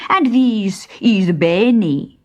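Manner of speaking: slow, courtly bandit voice; a lightly voiced gallant bandit; thin bandit, polite. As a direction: introduce yourself with ceremony. Thin bandit introducing his friend.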